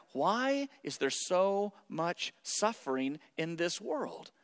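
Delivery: fading to a whisper on world; hushed question. Acted. Preacher posing the age-old question, fading to a whisper. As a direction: let the question sink into a whisper.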